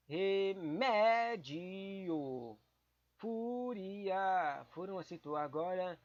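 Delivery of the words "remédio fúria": drawn out. Shown as a demonstration. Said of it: "qual cor você vai escolher?".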